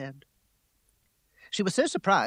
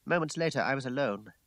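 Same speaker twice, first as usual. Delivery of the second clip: ordinary delivery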